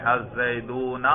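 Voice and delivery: slow الزیدون with the waw drawn out; sounded waw. Shown as a demonstration. Teacher showing students the pronounced waw, slow long "oo" in الزیدون. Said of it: "واو پر تلفظ کریں".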